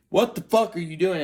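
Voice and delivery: high-pitched mock woman's voice; shrill-free high repeat of her cry; imitating Natalie's shock. Girlfriend repeating her shock, high mock voice.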